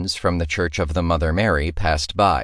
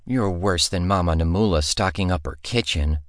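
grumbled. Acted. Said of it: "Shioni grumbled".

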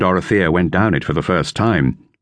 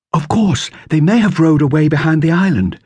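higher, lightly voiced girl; girl's voice, lifted higher; Dorothea; 9 semitones higher than usual. A narrator's reading. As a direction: read it as young Dorothea. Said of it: "said Dorothea".

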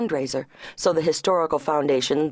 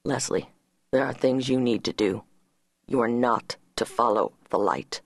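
said firmly; 6 semitones lower than usual. A narrator's reading. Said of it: "he said firmly".

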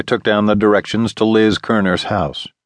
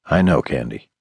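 gentle; 5 semitones lower than usual. Acted. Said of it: "I said gently".

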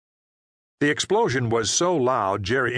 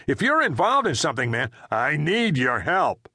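urgent, raised voice plea; bellowed; 6 semitones higher than usual. Acted. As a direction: push the plea hard. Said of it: "Frank's bellowed statement".

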